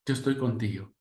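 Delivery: soft, gentle reassurance; gentle comfort. Retold or imitated. Jesus comforts the grieving widow, quiet and gentle. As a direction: comfort the grieving mother softly. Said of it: "La palabra de Jesús es".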